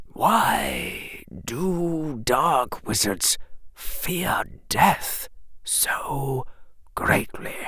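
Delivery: put-on slow, hushed puzzled old wizard; puzzled whisper. Headmaster asking Harry about death, puzzled whisper. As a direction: wonder aloud in a hushed voice. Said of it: "his voice sounded simply puzzled".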